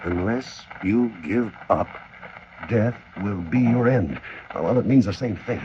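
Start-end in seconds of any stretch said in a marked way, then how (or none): 0.0-4.2 slow, careful corrected reading; slow corrected translation. Acted. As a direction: read the fixed translation carefully. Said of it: "that's not quite right".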